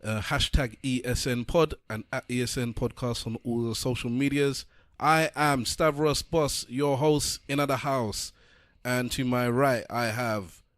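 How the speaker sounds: rolling, energetic show opener; podcast host intro. Real, not acted. Host welcoming listeners to another podcast episode, announcer delivery.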